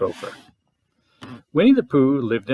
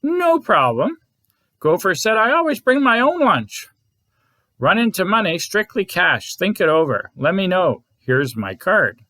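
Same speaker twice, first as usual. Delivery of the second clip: much higher, pushy gopher pitch; brisk gopher salesman; 4 semitones higher than usual. Acted. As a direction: rattle it off like a street salesman.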